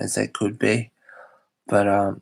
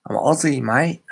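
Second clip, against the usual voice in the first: higher-pitched, lightly put-on Aussie accent; Australian accent; 4 semitones higher than usual. Shown as a demonstration. Streamer playfully claiming to be Aussie, Australian accent. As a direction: lay on a little Australian accent, lifting the end. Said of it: "try and do an Australian accent".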